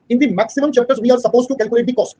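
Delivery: very slow, word by word dictation; dictating a definition to students. Shown as a demonstration. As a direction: spell it out slowly for notes. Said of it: "dictating note".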